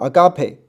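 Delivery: "agape" as a-GA-pe, said for repeating; model pronunciation. Shown as a demonstration. Teacher leading students to read along, modelled "agape" as a-ga-pe. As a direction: say "agape" in three clear syllables, a-ga-pe. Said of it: "跟我一起读一读哈".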